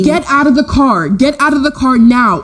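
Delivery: mild imitation of screaming get out; mock screaming. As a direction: voice up for a demanding shout, not truly screamed. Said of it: "starts screaming".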